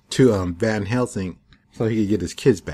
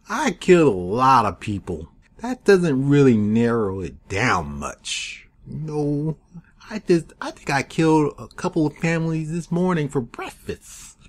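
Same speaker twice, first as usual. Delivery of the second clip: smug villain; 5 semitones higher than usual. Retold or imitated. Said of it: "the leader of the Order of Dragon is like".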